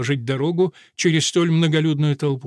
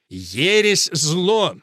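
ringing sermon voice, raised high; booming preacher voice; 3 semitones higher, 3 dB louder, much slower than usual. Acted. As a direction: proclaim it like a preacher. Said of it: "зычным голосом проповедника".

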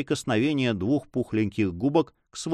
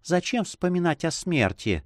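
tender; 9 semitones higher than usual. Acted. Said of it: "продолжал голос с невыразимой нежностью".

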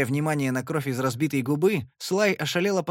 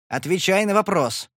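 sharp angry command, higher and louder; demanding an answer, angry; 6 semitones higher, 5 dB louder than usual. Acted. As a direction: bark the order at her. Furious demand during quarrel.

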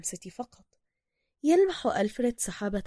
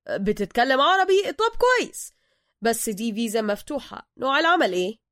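Egyptian passport officer; 3 semitones higher, 6 dB louder than usual. Acted. Egyptian officer questions Bruce.

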